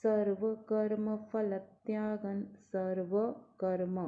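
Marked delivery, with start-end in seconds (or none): 0.0-2.4 "सर्वकर्मफलत्यागन्" slowly, every letter clear; slow clear recitation. Shown as a demonstration. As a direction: give each syllable of "सर्वकर्मफलत्यागन्" its own space. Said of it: "हर वर्ण को clear बोलना है".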